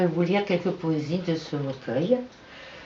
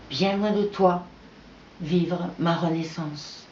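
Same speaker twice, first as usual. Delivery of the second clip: measured poem reading in short phrases; poetry recital. Acted. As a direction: recite it line by line, pausing between phrases. Reads own poem aloud. (lecture de poème, posée et rythmée)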